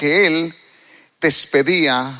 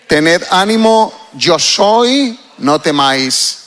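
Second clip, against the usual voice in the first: slow, emphatic read-aloud voice; reading aloud together; 4 dB louder, slower than usual. Shown as a demonstration. Preacher leads the congregation in Jesus's words to the disciples, read aloud slowly. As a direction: lead the room in reading it out, slowly. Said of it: "léalo conmigo en voz alta".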